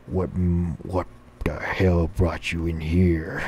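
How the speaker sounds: a hint of a menacing devil; devil Lucifer. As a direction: devil greeting the damned soul. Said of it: "vampire teeth and".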